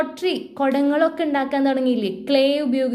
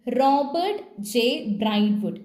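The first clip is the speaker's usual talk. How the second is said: name read out slowly, syllable by syllable; slow careful reading. Shown as a demonstration. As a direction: sound out the name "Robert J ബ്രൈറ്റ്വുഡ്" slowly. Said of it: "വായിച്ചേ". (പേര് പതുക്കെ വായിക്കുന്നു)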